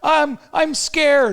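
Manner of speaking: loud, high, drawn-out mock wail; hammed-up panic. Panicked man in a fur store, mock wailing. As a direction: wail it in comic fear.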